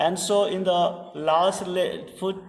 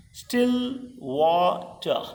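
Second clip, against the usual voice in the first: "still water" drawn out slowly in three parts; slow scansion of "still water"; syllable-by-syllable; much slower than usual. Shown as a demonstration. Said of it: "there are three syllabi".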